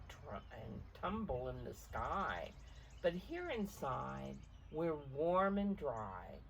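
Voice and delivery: gentle read-aloud picture book voice; story narration. A narrator's reading. Parent reading the storm page aloud to a child, gently.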